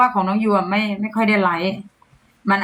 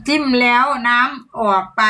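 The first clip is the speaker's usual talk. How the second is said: careful demo phrase; 2 semitones higher, slower than usual. Shown as a demonstration. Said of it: "ให้พูดอะไรได้บ้าง".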